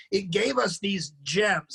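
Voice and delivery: slow, sarcastic praise. Real, not acted. Podcaster mocking Lost Cause rock songs, sarcastic. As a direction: draw it out with heavy irony. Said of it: "sarcastic and ironic here".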